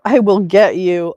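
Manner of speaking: loud, quick blurted threat; mock threat. Streamer reading a heckler's comment, loud mock threat. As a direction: belt out the threat in mockery.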